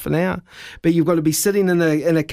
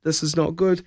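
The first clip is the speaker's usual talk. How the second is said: lower, softer, anxious muttering; mild panic; 4 semitones lower, 4 dB quieter than usual. Retold or imitated. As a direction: sink into quiet dread. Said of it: "I went".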